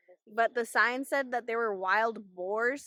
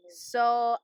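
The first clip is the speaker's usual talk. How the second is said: shouting over wind; 4 dB louder than usual. Real, not acted. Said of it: "Hopefully you can hear me through the wind".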